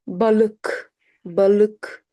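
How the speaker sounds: balık with dull ı and hard k; hard k, dotless ı. Shown as a demonstration. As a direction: say balık with a schwa-like vowel and hard k. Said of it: "We don't say balik".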